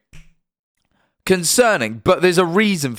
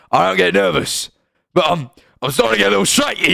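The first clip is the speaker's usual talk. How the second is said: lightly voiced nervous contestant, higher and quicker at the end; a hint of a shaky Apprentice contestant playing it cool; quoting The Apprentice guy; 6 semitones higher than usual. Streamer quoting the Apprentice guy to chat, lightly mimicked. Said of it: "and he goes".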